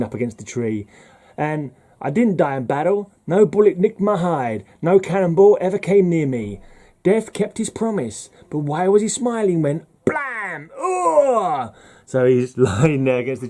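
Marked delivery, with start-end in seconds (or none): 2.0-11.7 high, theatrical comic-book soldier; dramatic reading climbing higher to the bang; hammed-up soldier. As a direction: build to a mock gunshot and dying cry. Acts out soldier's last words, gunshot.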